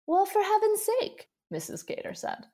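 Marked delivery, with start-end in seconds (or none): 0.1-1.3 surprised exclamation. Acted. Mrs Cater exclaims, surprised.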